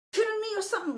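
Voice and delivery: retold incredulous yell. Woman yelling at the man she kicked, incredulous yell. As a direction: shriek it in outraged disbelief. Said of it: "And then, like".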